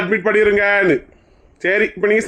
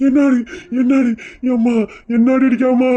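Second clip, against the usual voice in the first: pained yell; 4 semitones higher than usual. Acted. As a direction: cry out as the blows land. Husband crying out while hit.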